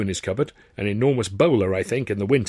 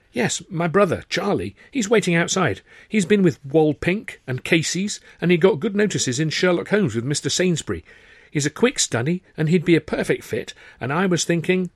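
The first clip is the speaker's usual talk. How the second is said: higher, earnest sales pitch; eager Sidney; 8 semitones higher, 4 dB louder than usual. Acted. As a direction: sell his brother to the boss. Sidney pitches his brother.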